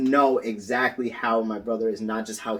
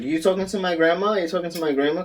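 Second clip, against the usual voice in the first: put-on asking a baby; 7 semitones higher, faster than usual. Quotes mother asking the baby.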